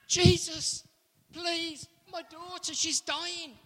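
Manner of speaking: a father begging for his daughter; pleading father. Acted. Jairus pleads to Jesus.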